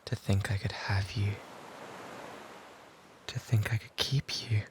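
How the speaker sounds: breathy whispered confession; hushed lovesick whisper. Acted. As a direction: whisper it close, as if only she may hear. Whispered regret.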